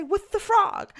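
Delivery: high, slow, drawn-out exasperated reply; sing-song it like you've given up arguing; weary high mock-exasperation. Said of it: "And I'm just exasperated".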